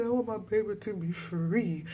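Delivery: high, lightly acted plea; hammed-up high-pitched mother's cry; desperate mother. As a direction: imitate a distraught mother pleading. Voices the crying mother.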